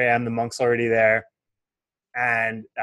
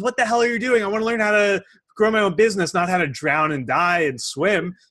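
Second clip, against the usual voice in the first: outraged yell; 7 semitones higher than usual. Acted. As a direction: yell it at the monk who half drowned you. Student angry after being dunked.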